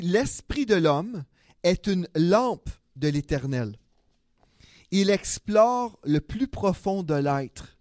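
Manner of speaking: slow, measured Bible reading; solemn slow reading of a Bible verse; scripture reading. Acted. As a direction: read the verse slowly, letting each phrase land. Reads scripture verse aloud.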